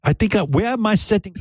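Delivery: put-on high, fast girly voice; squeaky mock lady voice; man doing a woman's voice. Girly voice, then it drops.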